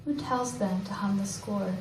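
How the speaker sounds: measured poem recital with pauses between lines; poetry reading. Acted. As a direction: recite each line deliberately, letting it settle. Reads own poem aloud.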